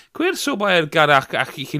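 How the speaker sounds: high Irish accent. Shown as a demonstration. Halfway through reading Irish, faltering Irish accent. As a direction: stumble through Irish words in a lifted Irish accent. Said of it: "go up high like that".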